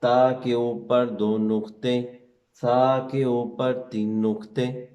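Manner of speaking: put-on slow, patient teacher voice to a child; explaining to a child. Shown as a demonstration. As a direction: spell it out slowly for the little one. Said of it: "ان کو اس طرح سمجھائیں".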